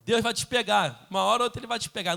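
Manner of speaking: preacher thunders the warning to fathers, loud. Acted. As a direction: hammer it home as a threat. Preacher's own warning line.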